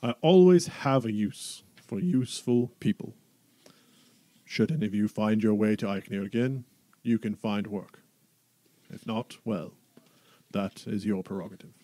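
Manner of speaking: booming Duke voice. Acted. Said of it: "big booming voice".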